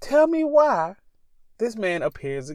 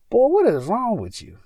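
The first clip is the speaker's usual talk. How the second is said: mock self-scolding; 8 semitones higher, 4 dB louder than usual. Scolding himself for a word slip.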